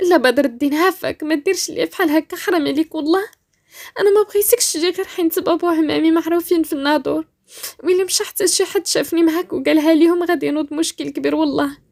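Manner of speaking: placating. Acted. Rania begs Badr not to come, placating. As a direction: try to cool him down. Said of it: "قالت بهدوء كتحاول تبرد معاها".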